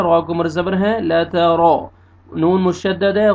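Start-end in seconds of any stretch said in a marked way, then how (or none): 1.1-1.9 "रॉ" said full and heavy; heavy, rounded "रॉ". Shown as a demonstration. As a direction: thicken the R in "ला त रॉ". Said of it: "रॉ को आपने मोटा करके पढ़ना है".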